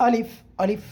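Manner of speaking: alif said firm and hard; আলিফ pronounced strong and firm; demonstrating a hard আলিফ. Shown as a demonstration. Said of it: "শক্ত করে".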